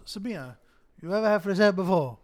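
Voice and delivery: a hint of the friend's voice, hurried at the end; imitating friend. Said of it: "he comes up to me and goes".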